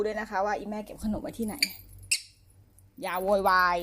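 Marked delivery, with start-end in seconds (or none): 3.0-3.8 stern, louder no-nonsense warning; firm scolding. Real, not acted. Owner scolding the squealing pet, stern and louder. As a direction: tell the pet off firmly.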